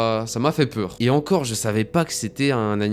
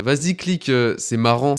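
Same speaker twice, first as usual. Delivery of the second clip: egging on; 2 semitones higher, 4 dB louder than usual. Retold or imitated. Retelling a friend urging him to click, lightly acted egging on.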